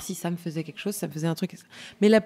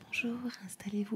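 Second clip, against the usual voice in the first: soft welcoming spa whisper; 13 dB quieter than usual. Retold or imitated. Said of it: "les nanas te reçoivent en disant".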